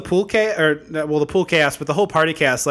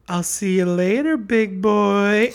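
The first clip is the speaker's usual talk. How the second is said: mock flirty taunt; 2 semitones higher, slower than usual. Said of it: "a little sexy finger wave".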